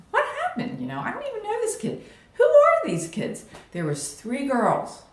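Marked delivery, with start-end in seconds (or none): 0.1-3.4 much higher, with a laugh in the middle; baffled, half-laughing disbelief; bewildered outburst. Retold or imitated. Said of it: "And I'm like".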